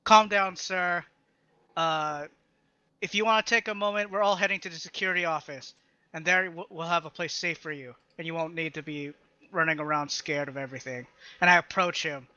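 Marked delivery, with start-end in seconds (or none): 0.0-11.1 calming a scared man. Acted. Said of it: "I say".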